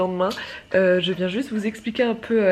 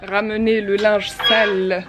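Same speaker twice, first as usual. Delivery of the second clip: excited; 3 semitones higher, 5 dB louder than usual. Real, not acted. Lively loud vlog outdoors.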